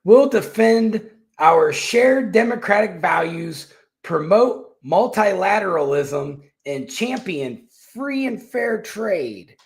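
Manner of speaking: slow, high mock German reading; a hint of German accent quoting her; mock German official voice; lightly German accent. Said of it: "she said".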